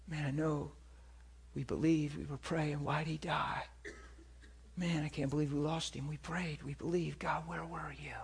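soft, broken-hearted murmur, falling to a whisper; grieving hushed lament. Retold or imitated. The hurt side of the room, grieving softly. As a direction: mourn it quietly, like someone who lost a friend.

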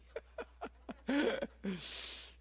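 soft unvoiced chuckle; breathy laugh. Real, not acted. Preacher laughing at his own joke to the room. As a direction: let out a quiet breathy laugh.

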